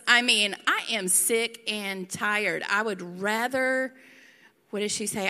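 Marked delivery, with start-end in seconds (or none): 0.7-3.9 slow, sassy fed-up quote. Acted. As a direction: draw it out with sass. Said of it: "The sass".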